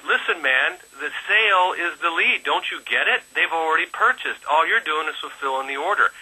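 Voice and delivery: a hint of an English coach setting him straight; English accent. Imitating Ralph's English accent to a badgering caller. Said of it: "in his English accent".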